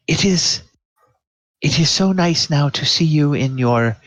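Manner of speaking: a hint of a gracious royal host; kind royal. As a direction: welcome her warmly, a bit lifted.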